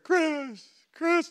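high sweet calling of his name; lightly voiced wife calling him; mimicking wife. Wife calling her husband from the floor, high and sweet.

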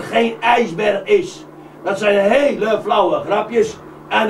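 grumpy scolding. Acted. Barends scolds the joking boys.

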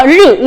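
르 as a Mandarin curled r; emphasized r sound. Shown as a demonstration. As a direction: isolate the 르 sound for learners. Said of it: "소리 강조하고 있어요".

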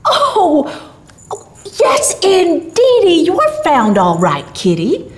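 put-on hearty old gift-bringer; Santa Claus. A narrator's reading. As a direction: boom it out slowly to reassure a child. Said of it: "said Santa Claus".

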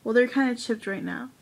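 talking through a stuffed nose; blocked nose, congested voice. Real, not acted. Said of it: "my nose is stuffed, so I sound really weird".

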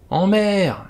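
put-on high, loud groan of a drunk old seaman. A narrator's reading. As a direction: wail it like a tipsy old sailor. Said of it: "gémit-il".

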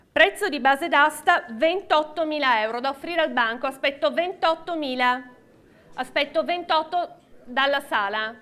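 rhythmic auction calling; auctioneer. Real, not acted. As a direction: call the bids like an auctioneer. Live auction, calling bids.

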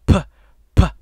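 popping puh sounds into the mic; plosive puh test. Shown as a demonstration. Testing the mic, popping hard puh sounds. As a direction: spit out puh for the pop filter. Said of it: "I'm gonna be able to go".

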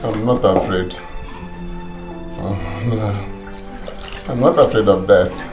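a dying father speaks his last words, low and faint; dying man's weak voice. Acted. Dying father to his wife, very low and faint.

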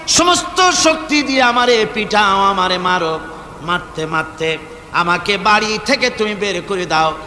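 impassioned melodic plea. Retold or imitated. Abu Huraira pleading with his mother, impassioned chant. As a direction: intone it as a devoted son's plea.

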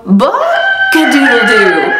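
slow, loud drawn-out crow; rooster crow. Shown as a demonstration. Modelling the crow for children to copy, slow and loud. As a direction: crow slowly for the kids to copy. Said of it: "Can you guys sound like a rooster?".

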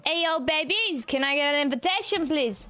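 a light, playful put-on New York accent; mock New York accent. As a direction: greet them like a cheeky New Yorker, lightly. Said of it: "What accent was that?".

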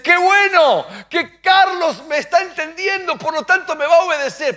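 put-on God beaming over his child; lightly voiced hopeful God; pleased God.

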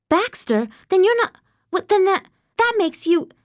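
high, rising disbelief; astonished. Acted. Girl realising who Miss Wilcox is, astonished. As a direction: piece it together, amazed.

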